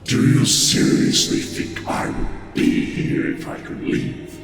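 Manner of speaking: rumbling voice with a mocking laugh; scornful chuckle. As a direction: scoff at the little mortal. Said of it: "There's almost, like, a chuckle".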